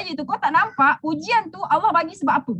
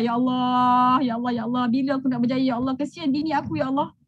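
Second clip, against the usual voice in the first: low, weary plea to God; understated weeping lament, pitched low; tearful lament; 6 semitones lower than usual. Acted. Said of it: "memang dia akan menangis lah".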